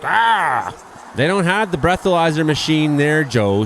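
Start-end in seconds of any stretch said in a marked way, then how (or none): 0.0-0.7 mock angry grunt. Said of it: "He's like".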